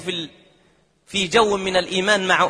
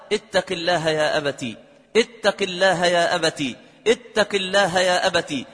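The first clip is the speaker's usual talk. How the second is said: gentle pleading; 3 semitones lower than usual. Acted. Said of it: "ونظرت إلي هذه الفتاة بحنان".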